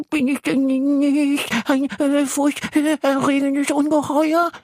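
very high, slow tearful plea; sobbing little monster. Acted. Little monster sobs to Yassin, very high and slow. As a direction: squeak it while starting to sob. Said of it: "beginnt das Tierchen zu schluchzen".

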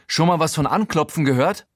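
outraged, calling out at him; indignant shout. Acted. Narrator outraged at Showalter barging in, indignant.

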